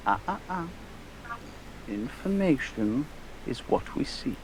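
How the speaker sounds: lightly voiced, measured reproof; controlled in-character correction; chiding gentleman customer. Player stops shopkeeper taking coin.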